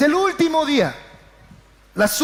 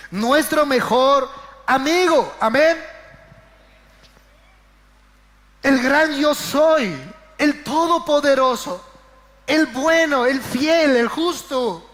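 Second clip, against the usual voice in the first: rising praise; worshipful proclamation; slower than usual. Acted. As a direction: proclaim each title like a litany. Proclaiming God's names.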